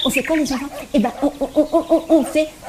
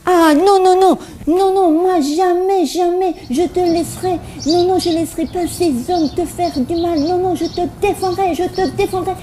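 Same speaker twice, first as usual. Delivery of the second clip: Peter protesting; 5 semitones higher than usual. Acted. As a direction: plead hard that you will defend him. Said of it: "Pierre, il dit".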